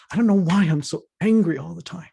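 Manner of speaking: venting her frustration; a touch of heated exasperation; exasperated confession. Retold or imitated. Quoting woman about her anger.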